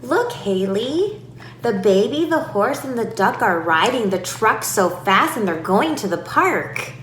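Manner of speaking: put-on lively run-on sentence to a child; animated chatter to a toddler in one long run; long wordy demo. Shown as a demonstration. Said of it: "using a really long sentence with a lot of words".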